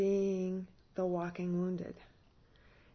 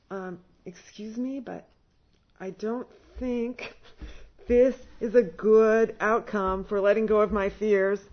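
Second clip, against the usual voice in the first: laughing; 2 semitones higher, 7 dB louder than usual. Retold or imitated. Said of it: "And I started to laugh".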